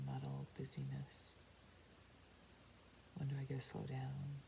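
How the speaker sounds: unhurried meditation guide with long pauses; guided meditation. Real, not acted. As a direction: guide them inward, calmly. Leads a meditation.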